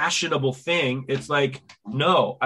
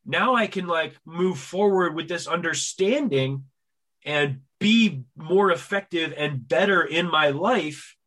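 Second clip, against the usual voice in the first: relieved understanding. Retold or imitated. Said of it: "sigh of relief of like".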